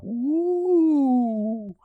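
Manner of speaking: high hopeful ooh. Retold or imitated. Comic eyeing the empty seats, hopeful high ooh.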